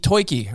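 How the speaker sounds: toiki with oi for the ur of turkey; Philly turkey. Retold or imitated. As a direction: say toiki, mock Philadelphia style. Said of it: "Addie came home and said".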